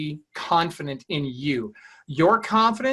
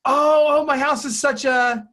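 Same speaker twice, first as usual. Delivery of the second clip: high, louder fretful homeowner; embarrassed seller; 8 semitones higher, 4 dB louder, slower than usual. Retold or imitated. Homeowner fretting high and loud about the mess to agent. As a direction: fret high about the messy house. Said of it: "what is she saying about the photos".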